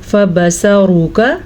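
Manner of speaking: फबसरुका slowly with a thick ra; heavy ra. Shown as a demonstration. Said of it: "हमने मोटा पढ़ा". (फबसरुका में रॉ मोटी)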